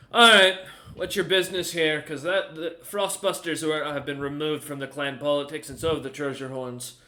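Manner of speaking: lightly voiced gruff-mannered old gatekeeper; hint of an old guard challenging a visitor; old dwarf guard. Old dwarf guard questions a newcomer at the gate, brusque challenge. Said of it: "The old, uh, snowbeard kinda walks forward".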